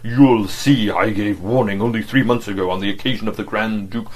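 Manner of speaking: loud, booming oratorical delivery; booming orator's bass. Acted. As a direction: fill a hall with it. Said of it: "boomed out in his great, clear, oratorical bass".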